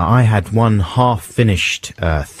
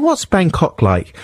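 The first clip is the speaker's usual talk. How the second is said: mock tourist; 8 semitones higher, slower than usual. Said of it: "going up to people and saying".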